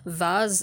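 Vase said as "vahz"; British VASE. Shown as a demonstration. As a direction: say Vase with an open AH and a Z. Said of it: "the correct pronunciation is vase".

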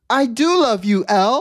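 a hint of a soppy teen confession; mocking the character. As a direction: friend mimics a flat love line, mildly mocking. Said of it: "He's like".

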